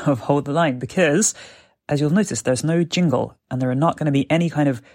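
recorded on a mobile phone; phone voice memo sound; phone voice recorder. Real, not acted. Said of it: "I'm just speaking into my voice recorder on my mobile phone".

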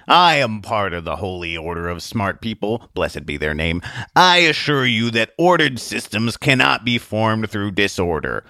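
lightly voiced pompous lecturer; slow, measured declaration of membership and doctrine; solemn man of science. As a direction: assure the crowd with ponderous formality. Lab-coated man addresses crowd.

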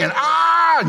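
loud, high mock yell at the kids; retold yell. Recalling yelling at his kids, a loud high mock yell. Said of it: "I'm, like, yelling".

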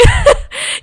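a squeaky laughing whimper; a sudden high wail of laughter; breathless giggle breaking high; high laugh-cry. Real, not acted. Laugh-cry after hyperventilating.

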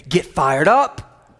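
loud, slow rallying call, rising at the end. Shown as a demonstration. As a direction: cue the crowd with a drawn-out lift on UP. Preacher prompting congregation to rally.

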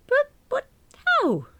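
high, slow, aghast stammer; falter, then wail the question; high-pitched bewildered wail; stammering disbelief. Acted. Narrator aghast at the mistake.

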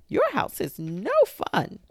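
very high, loud squeaky complaint; squeaky, whiny little goblin; goblin squeak. A narrator's reading. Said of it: "the goblin squeaked".

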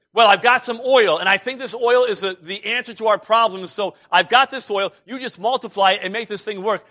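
mock confident widow. Widow imagined bargaining with Elijah, mock confident. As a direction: sell it like she has the answer. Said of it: "This woman is not saying".

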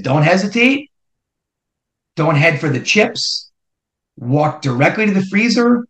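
rally him to march in like you own it; pep talk. Retold or imitated. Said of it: "he gives me this big pep talk".

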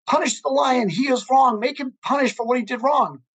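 excited donkey. Retold or imitated. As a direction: imitate a worked-up donkey demanding punishment. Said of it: "the donkey gets all excited and super excited".

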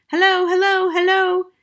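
very high, loud parrot call; high-pitched parrot voice, projected loudly; talking parrot. A narrator's reading. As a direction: squawk out a high parrot greeting. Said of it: "came the voice again".

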